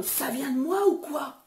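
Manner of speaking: mock shout of disbelief; retold yell. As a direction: blurt it out to Fred, fed up. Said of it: "je gueule en disant".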